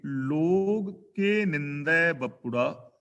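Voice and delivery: each word drawn out slowly; slow verse recitation. Shown as a demonstration. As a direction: recite the scripture line slowly and reverently. (ਹੌਲੀ ਹੌਲੀ ਬਾਣੀ ਦਾ ਪਾਠ)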